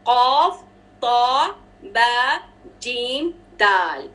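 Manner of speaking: slow listing of the letters कॉफ, तो, बा, जीम, दाल; qalqala letters. Shown as a demonstration. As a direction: recite the five letters slowly and clearly. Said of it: "कलकला के five letters".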